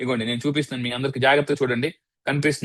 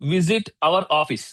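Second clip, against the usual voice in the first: slow invitation; much slower than usual. Shown as a demonstration. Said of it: "slow invitation".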